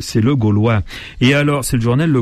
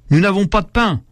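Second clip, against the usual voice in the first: mock outcry; 8 semitones higher than usual. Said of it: "s'écrie un des jeunes révolutionnaires".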